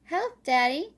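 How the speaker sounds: high, loud call for help; crying for help. Acted. Little Squirrel stuck in the hole calls Daddy, high and loud. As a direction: cry out to Daddy in a panic. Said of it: "cried Little Squirrel".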